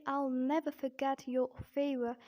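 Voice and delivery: British demo, Rs dropped in forget, your and favor; British-accent example sentence. Shown as a demonstration. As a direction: say it in a non-rhotic British accent. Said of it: "in British accent".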